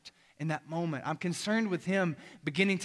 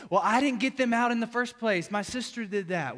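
put-on whiny kid excuse; 5 semitones higher, 4 dB louder than usual. Son's excuse voiced by dad.

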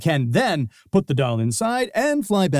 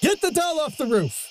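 much higher urgent call; urgent yell; 13 semitones higher than usual. Acted. Cohost calling up about the doll, higher and urgent. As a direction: demand the doll be saved.

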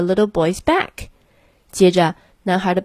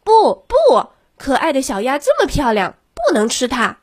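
put-on child crying out; 6 semitones higher than usual. A narrator's reading. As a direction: cry out high to save the duck. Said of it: "男孩大叫道".

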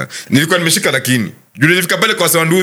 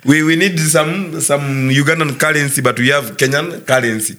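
put-on Kenyan accent; slower than usual. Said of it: "hii ni na Kizungu".

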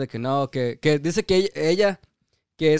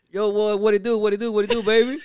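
mock street slang; 5 semitones higher than usual. Greeting coworker in slang voice.

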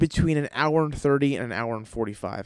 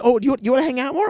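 mock politeness; 12 semitones higher, 4 dB louder, faster than usual. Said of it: "his reply".

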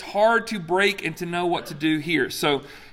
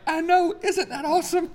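much higher, gushing "I know, isn't that awesome"; hammed-up happy new husband; gleeful retold reply; 13 semitones higher than usual. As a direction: gush with delight that she's leaving home. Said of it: "I'm like".

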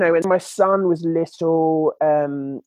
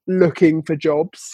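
slowed, ironic looking for jobs with a laugh; mocking the ex's supposed job hunt, slowed and laughing; sarcastic air quotes; slower than usual. Real, not acted. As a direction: say it as if in scare quotes. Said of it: "I'm making the inverted commas".

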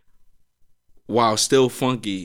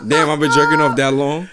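laughing. Real, not acted. Laughs at himself.

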